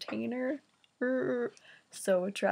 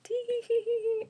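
high whispered tee-hee giggle; giggling; 13 semitones higher, faster than usual. Retold or imitated. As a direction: titter like a kid in class. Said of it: "like, like".

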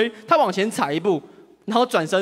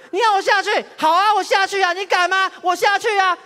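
much higher, shrill-free angry retort; angry girlfriend; 10 semitones higher than usual. Retold or imitated. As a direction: fire back at him in a huff, pitch way up. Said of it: "但她也非常生气".

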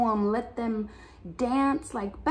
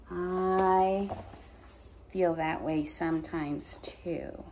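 whispered confiding; 3 semitones lower, 4 dB quieter than usual. Real, not acted. Personal confiding aside.

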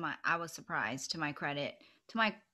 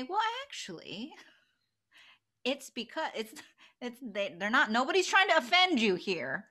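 calm explanation; 4 semitones higher than usual. Retold or imitated. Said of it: "calmly say".

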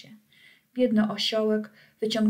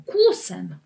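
louder barked-out order; shouted command; 2 semitones lower, 6 dB louder than usual. Acted. Director shouting the trot command at the donkey. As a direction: crack it out like a ringmaster. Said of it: "dyrektor krzyknął".

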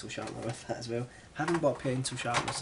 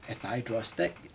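voice went weird. Real, not acted. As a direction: voice cracks mid-phrase on draw. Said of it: "my voice went weird there".

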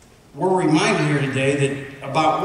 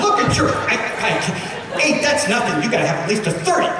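laughing doctor quote; 5 semitones higher than usual. Retold or imitated. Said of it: "She goes".

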